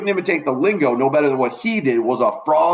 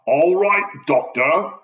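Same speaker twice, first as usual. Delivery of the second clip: mocking; 4 semitones higher, slower than usual. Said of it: "kind of mocking him".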